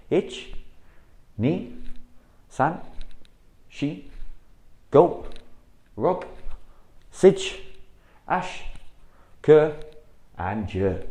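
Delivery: loud, high drill count; sharp dojo counting; called count. Shown as a demonstration. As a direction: bark each number to the class. Coach calls out drill count.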